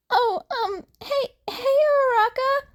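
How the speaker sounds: high nervous voice with a laugh; awkward greeting. A narrator's reading. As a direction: fumble the hello, flustered. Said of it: "He waved awkwardly".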